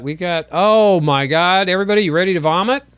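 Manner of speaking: loud, gleeful gross-out warning; mock disgust. Real, not acted. Host warning viewers before a gross clip, loud and gleeful. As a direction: hype up something disgusting.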